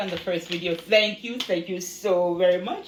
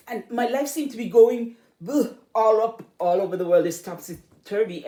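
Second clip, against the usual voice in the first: a lightly voiced moaning neighbour piling up woes; hammed-up list of troubles, getting louder; complaining neighbour; 3 semitones higher, 5 dB louder than usual. A neighbour unloading troubles on a greeter, mock loud moaning. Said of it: "some people would stop and say".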